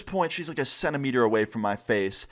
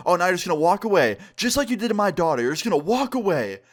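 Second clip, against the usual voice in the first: quick, higher-pitched mock yell; retold screaming; 5 semitones higher than usual. Mom following him to the door, accusing mock yell. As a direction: imitate an accusing rant, mildly raised. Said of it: "she was screaming in my ear".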